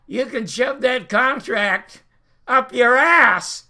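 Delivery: retold defiance. Star defies network boss in retold quarrel.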